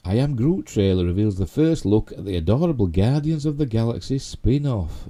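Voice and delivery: lilting headline voice; headline read. Real, not acted. Host reads Groot headline to viewers, headline read. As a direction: read out the trailer headline to the audience.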